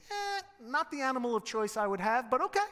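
comic reluctant acceptance, lifting high at the end; mock the crowd's hesitant shrug; doubtful thinking aloud. Crowd eyeing Jesus on the donkey, mock-doubtful. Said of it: "they're thinking".

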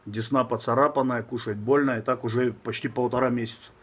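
slushy lisp, new braces on teeth. Real, not acted. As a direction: talk around fresh braces. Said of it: "Шепелявлю, потому что у меня... Поставил брекеты".

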